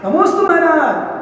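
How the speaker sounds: devotee's salutation. Acted.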